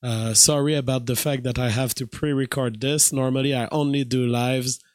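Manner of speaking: tired voice with little power; weak voice. Real, not acted. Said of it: "my voice is super weak today".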